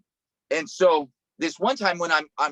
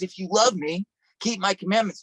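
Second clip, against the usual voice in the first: higher, stronger repeat of the verse; rising preacher emphasis; preaching it out; 3 semitones higher than usual. Acted. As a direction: press the command home to the crowd. Repeating Jesus' words with force.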